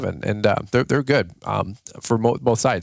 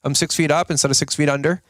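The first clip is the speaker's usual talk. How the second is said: higher, chirpy sunny answer; upbeat mock reply; 5 semitones higher than usual. A stranger asked about their day, chirpy. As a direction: sound like life is great. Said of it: "They're gonna go".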